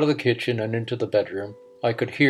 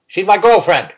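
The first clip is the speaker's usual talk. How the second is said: loud and higher, proud and testy; loud boast; 7 semitones higher, 9 dB louder than usual. A narrator's reading. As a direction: throw it at him proudly. Old uncle boasts, irritated.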